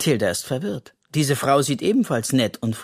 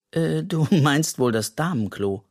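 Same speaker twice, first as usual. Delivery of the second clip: giggling; 3 semitones higher than usual. Acted. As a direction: question with a giggle in it. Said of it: "Joschi kichert". (kichernd nachgefragt)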